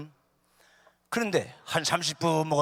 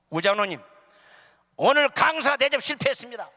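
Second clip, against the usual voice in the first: loud, high indignant outburst; scowling complaint; 7 semitones higher, 9 dB louder than usual. Acted. Guest preacher rebuking his host elder, scowling complaint. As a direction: tell him off in a raised voice. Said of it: "내가 막 인상을 쓰면서".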